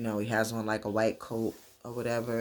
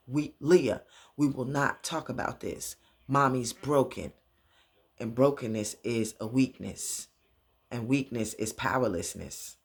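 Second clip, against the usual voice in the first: lightly voiced father's lecture, firm emphasis; stern father. Father to his crying daughter, lightly acted stern lecture. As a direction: lay down each point with measured pauses.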